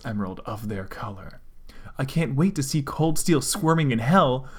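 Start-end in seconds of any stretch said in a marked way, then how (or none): 2.0-4.5 sadistic smirk. Acted. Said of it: "smirked the red one sadistically".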